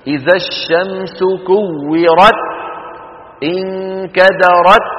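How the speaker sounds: slow, each ta in كورت and انكدرت shut with no breath; wrong ta without breath. Retold or imitated. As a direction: imitate reading the ta locked, unwhispered. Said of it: "شو عم يعمل". (قراءة خاطئة بتاء شديدة بلا همس)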